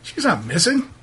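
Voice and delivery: lightly voiced, dismissive townsman; a touch of exasperated local; defensive local man. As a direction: explain it away, pitched a little up. Game master plays irritated local.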